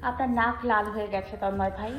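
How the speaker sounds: half-broken sleepy voice; husky just-woken rasp, soft; breathy rasp. A narrator's reading. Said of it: "আধভাঙা গলায় বলল". (আধভাঙা ঘুমজড়ানো গলা)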